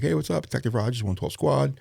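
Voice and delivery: bright high put-on phone voice; high and chipper, playing it casual; mock cheerful caller. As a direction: greet them like a breezy cop on the phone.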